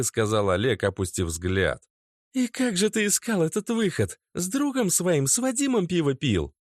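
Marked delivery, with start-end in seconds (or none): 2.3-6.5 very high, biting; mock his silence; sarcastic angry girlfriend. A narrator's reading. Natasha mocks Oleg's hidden prophecy, angrily.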